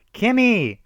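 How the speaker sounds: very high, loud horrified scream; shrieked. A narrator's reading. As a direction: scream as she is crushed. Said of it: "shrieked Rachel".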